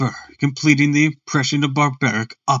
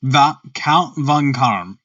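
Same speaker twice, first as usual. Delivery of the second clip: slow, lightly put-on German accent; a hint of a German count; much slower than usual. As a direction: draw the name out with a touch of German. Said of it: "I have to do a German voice".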